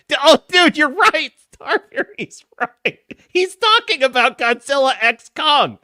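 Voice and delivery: high-pitched amazed outburst; excited realisation. Real, not acted. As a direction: exclaim it as the penny drops. Sudden realisation about viewer's film reference.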